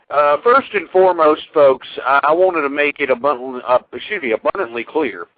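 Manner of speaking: slightly tipsy, tripping over words; tipsy speech after a few beers. Real, not acted. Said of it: "if I sound somewhat, uh, a little bit tipsy".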